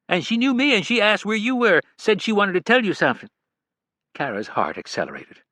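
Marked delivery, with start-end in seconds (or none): 0.1-3.3 much higher, kindly caregiver voice; caring nurse. A narrator's reading. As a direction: gently warn the daughter not to hope too much. Nurse Janine voiced by narrator.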